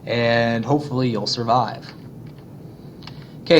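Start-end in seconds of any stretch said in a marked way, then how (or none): 0.1-1.9 a hammed-up sales pitch read slowly; mock advertisement. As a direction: sell Virginia like an old poster. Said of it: "here's some advertisements".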